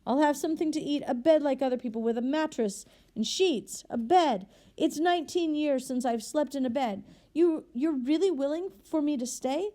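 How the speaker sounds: high, loud, tumbling astonished joy; stammering with disbelief. A narrator's reading. Freed convict overwhelmed by the bishop's welcome, high excited stammer. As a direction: blurt it out, hardly believing your luck. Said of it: "He began to stammer like a madman".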